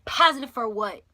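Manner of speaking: loud, taken-aback question; stunned reaction. Retold or imitated. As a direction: demand an answer in disbelief. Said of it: "literally, that was my reaction".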